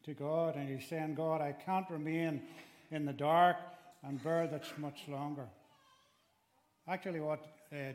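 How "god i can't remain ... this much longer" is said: a preacher voicing David's lament; crying out. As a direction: drag it out, then burst on dark. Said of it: "He's crying out to God".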